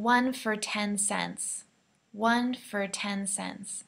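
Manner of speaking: slow, with for reduced to fur; slow model phrase with reduced for. Shown as a demonstration. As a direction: model the line with a weak for. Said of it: "just like that".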